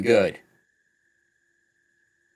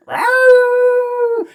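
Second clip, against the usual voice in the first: huge high creature roar; dinosaur voice; 13 dB louder than usual. Acted. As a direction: roar like a monster. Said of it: "looks up and goes".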